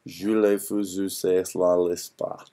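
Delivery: slow mock French gibberish; fake French. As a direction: bluff your way through some French. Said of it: "Can you say something in French?".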